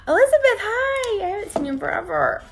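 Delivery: high excited cry to a viewer not seen in ages; thrilled greeting. Real, not acted. Long-unseen viewer joins the live.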